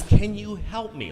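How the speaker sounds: wife pitching it up to get through; seeking his frequency. Retold or imitated. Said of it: "trying to find his frequency".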